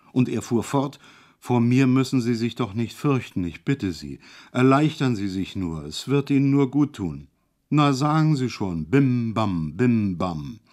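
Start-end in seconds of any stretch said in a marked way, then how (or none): 1.4-10.6 pleading. Acted. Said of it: "So flehte er mich".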